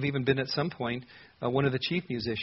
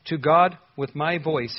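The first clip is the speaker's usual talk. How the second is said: slower, louder "To God with my voice", GOD stressed; slow emphatic repeat; 6 dB louder, slower than usual. Shown as a demonstration. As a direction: repeat it slowly, leaning on GOD. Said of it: "he repeats it".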